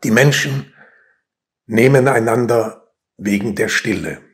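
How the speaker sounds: measured poem reading with weighty pauses; solemnly paced verse reading; poetry recitation. Acted. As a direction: recite line by line, letting each land.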